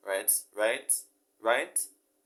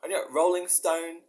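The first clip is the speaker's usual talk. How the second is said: higher, louder put-on Cockney voice; Cockney impression of a singer; 7 semitones higher, 6 dB louder than usual. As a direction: play a famous singer fumbling his lyrics in Cockney. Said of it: "like a singer".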